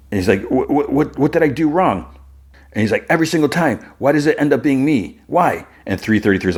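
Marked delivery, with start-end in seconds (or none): 0.5-2.1 high-pitched, stammering question; lightly acted desperation; acted panicked plea. Timid guy pleads before his attacker. 3.1-5.7 high-pitched, plaintive complaint; hurt, higher-pitched pleading; acted despairing protest. Timid guy protests being targeted.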